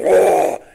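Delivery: sudden booming mock lion's roar. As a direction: roar out loud like an attacking lion. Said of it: "this lion goes".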